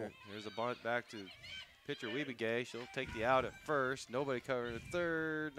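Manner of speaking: building softball call as the bunt develops; live play-by-play. Real, not acted. Announcer calls a bunt for listeners, live play-by-play. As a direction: follow the play as it happens.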